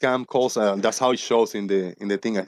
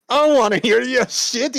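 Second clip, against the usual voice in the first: high, loud rebuff breaking into laughter; laughing telling-off; 14 semitones higher, 4 dB louder than usual. Retold or imitated. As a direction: tell them off, cracking up midway.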